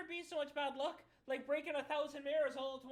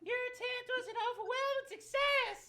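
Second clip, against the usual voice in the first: laughing; 6 semitones higher, 4 dB louder than usual. Real, not acted. Mock praise of failed attempt.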